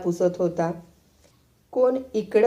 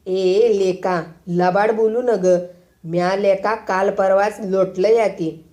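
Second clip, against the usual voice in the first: flustered and angry; 3 dB louder, slower than usual. Acted. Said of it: "तर बत्तर होऊन म्हणाला".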